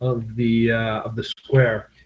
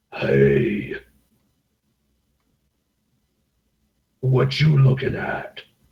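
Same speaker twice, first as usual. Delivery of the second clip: rough, deep, gravelly pirate growl, tough-guy voice. Voicing a rough, eye-patched contact the player described: deep gravelly voice. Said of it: "fairly deep and, uh, gravelly voice".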